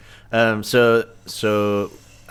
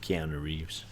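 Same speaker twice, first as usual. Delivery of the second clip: whispering; 5 semitones lower, 11 dB quieter, slower than usual. Real, not acted. Whispered answer.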